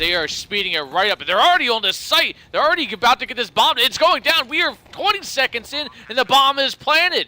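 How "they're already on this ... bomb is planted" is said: excited. Real, not acted. Caster hyping fast bomb plant.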